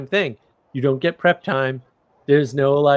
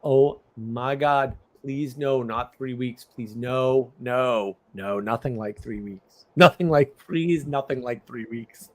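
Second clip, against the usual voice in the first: desperate inner plea; 3 semitones lower, slower than usual. Retold or imitated. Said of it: "all I can think of is".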